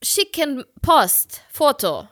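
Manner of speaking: put-on slow Italian-accented German request; halting, Italian-accented question dropping at the end; Giovanni. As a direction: imitate an Italian picking out German words slowly. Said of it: "meinte er so".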